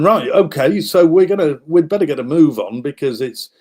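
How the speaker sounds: rally the men, we're late; hurried soldiers. Retold or imitated. Soldiers hurrying each other to the surrender, loud and urgent. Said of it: "And they're going".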